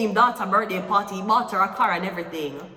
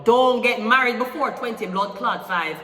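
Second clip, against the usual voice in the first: loud warning; 2 semitones higher, 5 dB louder than usual. Real, not acted. Emphatic warning to client.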